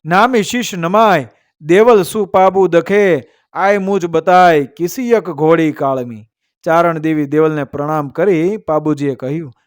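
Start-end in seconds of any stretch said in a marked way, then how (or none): 0.0-6.3 measured, metrical couplet delivery; verse recitation. A narrator's reading. Storyteller reciting a couplet to listeners, verse recitation. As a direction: recite it as an old heroic verse.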